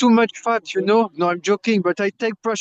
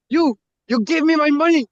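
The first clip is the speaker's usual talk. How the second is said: higher, louder demand for his money; retold shout; 6 semitones higher, 4 dB louder than usual. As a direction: bark it at the wife, mock-angry. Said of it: "He was shouting on his wife".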